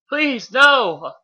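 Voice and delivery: high, loud begging cry; desperate plea. Acted. Bee begging Megatron to spare Optimus, high desperate plea. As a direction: beg loudly, voice jumping way up.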